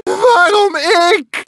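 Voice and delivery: slow, sobbing cry; crying wail. Acted. Beaten character wailing at the bandicoot, crying. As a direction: wail it out in self-pity. Character lamenting being attacked.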